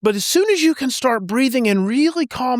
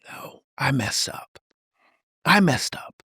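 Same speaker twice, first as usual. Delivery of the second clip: gentle admission; 6 semitones lower, 4 dB quieter than usual. Acted. Dad gently admits fault.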